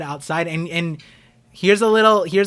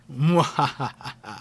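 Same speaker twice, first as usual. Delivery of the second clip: evil villain laugh. Retold or imitated. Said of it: "I sound so evil".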